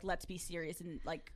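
quiet put-on bedroom voice; mock seductive mode. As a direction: drop into hushed, sexy seriousness. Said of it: "seductive mode".

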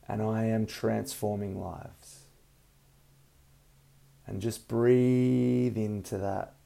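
calm breathing guidance, unhurried; soothing massage murmur. Acted. Leads a guided meditation.

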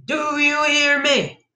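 slow, high-pitched drawn-out yell; shouted demand. A narrator's reading. Child confronting the bandit, slow high shout. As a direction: stretch every word into a shout. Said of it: "I shouted again".

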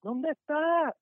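high, slow demanding question; impatient boss calling. Retold or imitated. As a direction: stretch it out like a nagging boss. Boss calling every morning. (jefe impaciente, agudo y lento)

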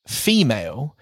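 "female" said "fe-MAH-lay", like tamale. Shown as a demonstration. Host playing the word game, "female" said like tamale. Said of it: "you pronounce it like tamale".

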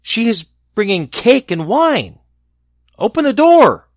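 sly wolf pitched high; coaxing put-on sweet voice. A narrator's reading. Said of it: "replied the wolf".

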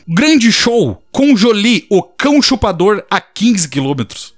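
slow, grand announcer read; billboard announcer read. Retold or imitated. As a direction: announce it like a big show. Reading out a roadside billboard.

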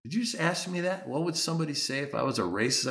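indignant comeback without shouting; ticked off. Retold or imitated. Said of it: "that's when I got ticked off".

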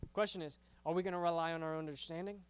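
fast, slurred run-together words. Real, not acted. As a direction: rush it so the words blur. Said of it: "I said that weird".

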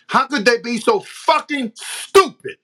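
loud, slow, incredulous anger; exasperated outburst. Real, not acted. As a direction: hammer it out slowly in real exasperation. Exasperated repeat of his own question.

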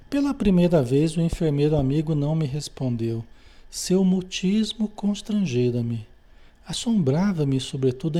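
measured, lightly formal read-aloud; book reading. A narrator's reading. Teacher reads a spiritist narrative to students, measured book reading. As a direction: read the passage out to a study group.

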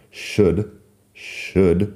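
"should" said as shud, with no L sound at all; silent L. Shown as a demonstration. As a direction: say "should" to rhyme with good, L left silent. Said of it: "la L que no suena".

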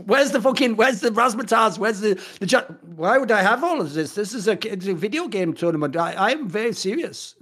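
exasperated mock German accent; serious German who sees no fun. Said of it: "I should start doing that German accent more".

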